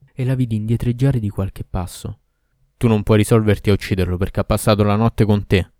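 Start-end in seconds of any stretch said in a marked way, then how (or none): 2.8-5.7 louder, accusing demon; shouting Ifrit. Acted. Ifrit yelling at the girl who won't kill, louder. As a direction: hurl the accusation. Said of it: "urlò l'Ifrit".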